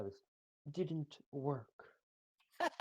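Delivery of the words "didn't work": put-on higher, girlish voice. Shown as a demonstration. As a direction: put on your best girl voice. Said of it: "that's my best girl voice".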